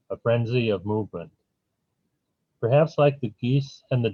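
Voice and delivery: measured poetry reading, line by line; poem lines falling gently at each end. Acted. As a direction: read it as verse, pausing after each line. Reads own poem aloud.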